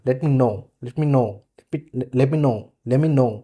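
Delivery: "Let me know" repeated as one beat; rhythmic. Shown as a demonstration. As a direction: drill "Let me know" rhythmically as a linked sound group. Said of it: "Speak like rhythm".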